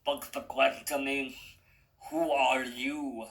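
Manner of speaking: put-on lightly done Russian accent. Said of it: "in a Russian accent".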